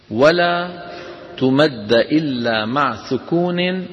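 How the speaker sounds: slow, measured chanting of the verse; poem recitation. Shown as a demonstration. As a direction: recite the verse slowly, word by word. Recites the didactic poem lines. (إنشاد متأنٍّ لأبيات المنظومة)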